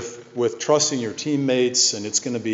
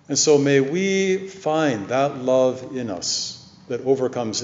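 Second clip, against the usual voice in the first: closing prayer. Acted. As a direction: bless the congregation unhurriedly.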